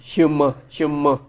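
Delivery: शम्मा said shumma, e as a; शम्मा as shumma twice; Chinese shenme. Shown as a demonstration. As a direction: repeat शम्मा with a short a sound. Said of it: "ई को जो है वो अ पढ़ते हैं".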